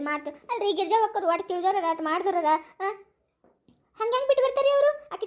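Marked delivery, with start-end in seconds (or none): 4.0-5.1 higher and louder, refusing to believe; raised incredulous challenge; indignant disbelief. Acted. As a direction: protest it can't be true. Disbelieving the gossip.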